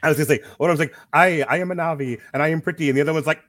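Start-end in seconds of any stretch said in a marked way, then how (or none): 1.1-2.9 higher-pitched mock alien dialect; put-on alien accent for a movie character; mock Na'vi accent. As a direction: imitate an actor attempting a Na'vi accent. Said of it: "trying to do the accent".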